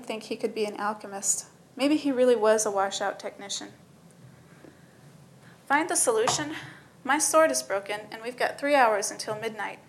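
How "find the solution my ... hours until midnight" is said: whiny. Acted. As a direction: whine it back in disbelief. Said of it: "the whine in his voice".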